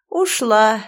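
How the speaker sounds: старуха эхом, громче; повтори «Ушла» глухим эхом, как старуха. Acted. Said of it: "эхом повторила старуха". (старуха эхом повторяет слово Бьорка)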